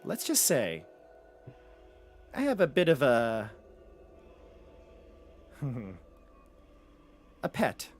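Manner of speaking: soft, halting confidences with long pauses; coy, hushed boasting; secretive villainess. Acted. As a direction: let out a secret bit by bit. Same character shares a secret.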